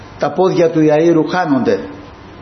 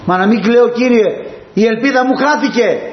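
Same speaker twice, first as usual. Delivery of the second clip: higher, pleading widow's lament; grieving widow; 8 semitones higher than usual. Acted. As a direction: cry out your lost hope to the Lord. Grieving widow answers Jesus.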